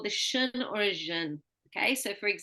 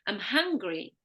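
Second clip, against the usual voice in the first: hungry stronger, I'm light; stress on key word. Shown as a demonstration. Teacher modelling key-word stress, hungry stronger than I'm. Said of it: "the other one is emphasized".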